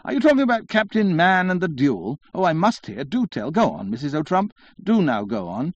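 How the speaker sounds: high, eager mock scream, settling gradually; screaming feminine interloper. A narrator's reading. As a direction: butt in excitedly, begging for gossip. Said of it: "screamed some little feminine interloper".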